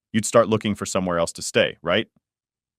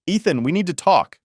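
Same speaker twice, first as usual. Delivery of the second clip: higher, mock-stern mom voice; mom's serious voice; 9 semitones higher than usual. Mom confronting her son at the kitchen table, higher mock-stern. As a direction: imitate mom calling him to sit down. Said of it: "My mom looks at me and goes".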